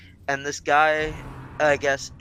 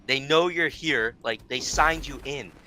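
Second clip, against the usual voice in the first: exasperated retort. Retold or imitated. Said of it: "and it's like".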